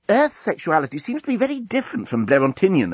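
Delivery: alien man voice. Acted. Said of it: "observed the journalist".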